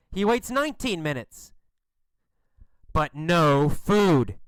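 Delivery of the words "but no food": slow, heavy "but no food"; emphatic letdown. A narrator's reading. Narrator on the second fruitless wait, slow and emphatic. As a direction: stretch "no" and "food" with weight.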